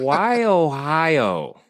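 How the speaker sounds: milk each vowel for comic puzzlement; slow, swooping mock bewilderment; drawn-out punchline. Playful punchline of wondering question.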